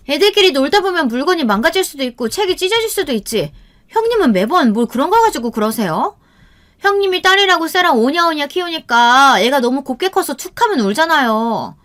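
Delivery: high-pitched, insolent sister-in-law; dismissive retort. A narrator's reading. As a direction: brush off her protest and blame her parenting. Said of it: "제 말도 무시하고". (무시하며 되받아치는 높은 목소리)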